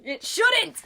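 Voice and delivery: high, loud exclamation; emphatic agreement. Real, not acted. Co-host heartily agrees the music shouldn't be that good, emphatic. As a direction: burst out in total agreement.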